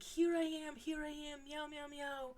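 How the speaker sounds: high, bright little cat voice calling out; cat meowing. Retold or imitated. Cat running to owner, greeting her: high mock meowing. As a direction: voice the cat announcing he has arrived. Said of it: "just meowing".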